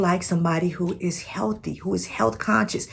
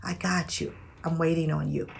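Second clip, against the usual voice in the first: tender reassurance; 5 dB quieter than usual. Shown as a demonstration.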